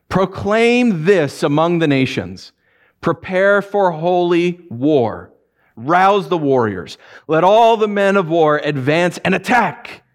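slow, solemn reading of the verse; scripture reading. Acted. Preacher reading Joel to the congregation, slow and solemn. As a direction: read it out gravely, slowly.

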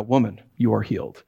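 a tender woman you are healed. Shown as a demonstration. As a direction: say it gently like a blessing. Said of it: "if you change the inflection".

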